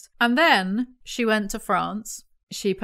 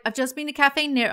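higher, lightly attempted American accent; 4 semitones higher than usual. Quoting the American visitor to London, tentative American accent. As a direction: start a slight American accent impression. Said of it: "I'm not gonna do an American accent".

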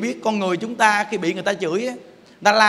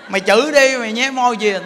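lightly acted quarrelsome accuser; mock accusing; 2 semitones higher than usual. Accuser challenging someone who silently moves their lips, mock accusing. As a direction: pick a fight, a little raised.

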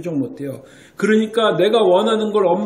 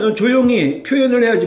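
mock scolding mother; 5 semitones higher, 5 dB louder than usual. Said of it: "이러고 훈육하지는 않지 않습니까".

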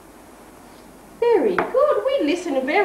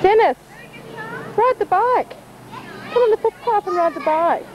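calling out; 8 semitones higher, faster than usual. Real, not acted. Teacher calling to a child.

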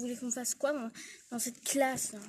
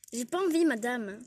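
defiant louder refusal; 5 dB louder than usual. Acted. Élève refuse encore, insolente. (refus insolent plus fort et plus aigu)

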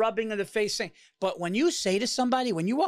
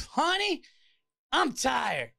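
imitating weary counter woman; 2 semitones higher, much slower than usual. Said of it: "she just goes".

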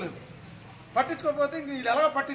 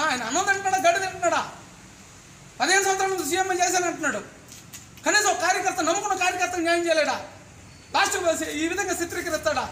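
angry outburst; 4 semitones higher than usual. Real, not acted. Aggrieved man venting at reporters.

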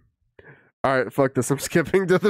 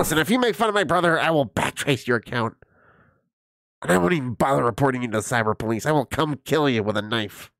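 mock internet tough guy. Streamer parodies angry kid.

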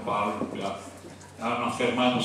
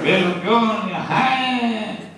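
mock scolding; 7 semitones higher, much slower than usual. Officer scolding the girl.

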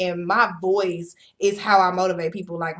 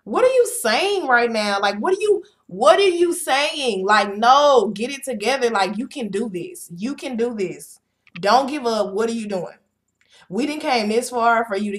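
put-on high, louder, disbelieving "girl what?"; incredulous self-scolding; 3 semitones higher, 4 dB louder than usual. Scolding herself for wanting to quit, incredulous and loud. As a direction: snap yourself out of quitting with sass. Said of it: "will tell myself".

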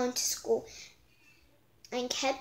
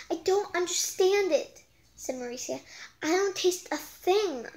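high puzzled voice; 5 semitones higher than usual. Acted. Mauricia puzzled.

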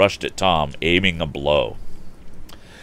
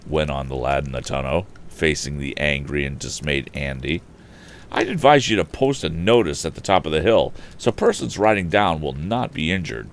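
put-on young hero voice. Tom lectures the bully.

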